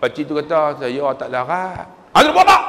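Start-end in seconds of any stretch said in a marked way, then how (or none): 0.8-1.9 lightly voiced feeble old man; slow, slightly subdued plea; a hint of a tired elder; weary old man. Feeble old man answering the clerk. 2.1-2.6 high, loud snappish question; cross official yelling; angry clerk. Retold or imitated. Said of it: "Dia cakap macam tu".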